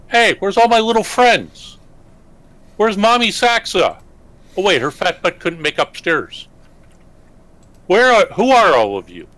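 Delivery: put-on high childish voice, a little lost; young dragon kid. Dragon kid just woken, asking strangers where his mom is, high childish voice. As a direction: sound like a small child calling for his mom. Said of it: "looks around and goes".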